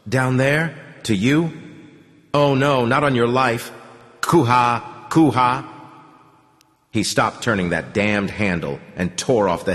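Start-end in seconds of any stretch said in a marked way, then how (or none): 0.1-5.6 chuckling spirits. Acted. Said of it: "just chuckled".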